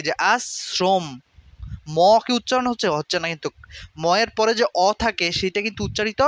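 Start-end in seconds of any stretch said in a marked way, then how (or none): 0.3-1.0 আশ্রম as "as-srom", closing on m; silent final vowel. Shown as a demonstration. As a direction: end আশ্রম on a closed m, dental s before it. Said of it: "অটা উজ্জ থাকে". (আশ্রম-এর শেষে অ উহ্য, "আস্-স্রোম্")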